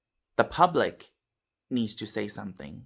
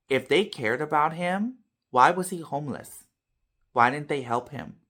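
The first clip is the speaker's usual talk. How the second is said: higher, louder retold challenge; imitated indignant mom; 5 semitones higher, 4 dB louder than usual. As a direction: act out a mother's pointed questions. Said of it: "my mom was beyond belief furious".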